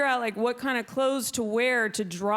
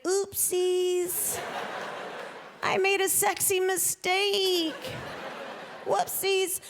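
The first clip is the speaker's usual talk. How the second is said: high, slow, cutesy fake embarrassment; coy flirt; 7 semitones higher, much slower than usual. Flirting at guys about her showing G-string strap. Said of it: "you can be like".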